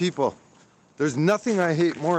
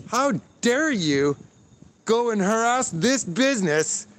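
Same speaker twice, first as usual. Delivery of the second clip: indignant outrage; 4 semitones higher than usual. Real, not acted. Angry rant at police.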